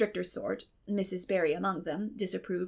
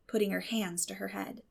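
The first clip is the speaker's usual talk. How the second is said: usual speaking voice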